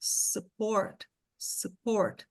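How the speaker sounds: support in two syllables, sup-port; English pronunciation. Shown as a demonstration. Teacher modelling support for students. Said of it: "duas sílabas".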